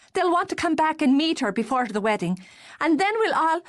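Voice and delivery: high, bright delighted gush; delighted sister. Acted. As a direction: burst with joy for your brother. Darcy thrilled at the news.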